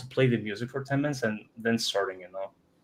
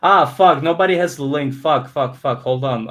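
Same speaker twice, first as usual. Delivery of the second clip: frustrated cursing; 3 semitones higher, 6 dB louder than usual. Real, not acted. Realizes nobody has the link.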